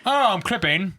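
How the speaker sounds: high, moaned tag line; moaning voice. Shown as a demonstration. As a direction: moan it like a sexy tag. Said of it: "you get moaning or British".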